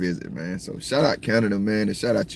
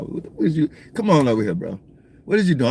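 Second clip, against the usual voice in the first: higher, sharper call at a cow; scolding; 4 semitones higher than usual. Real, not acted. Driver shouting at a cow he's passing, scolding. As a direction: call out at the animal.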